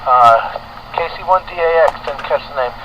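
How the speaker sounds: over a two-way radio; transmitted radio voice; construction site radio. Real, not acted. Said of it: "your audio into the station is nice".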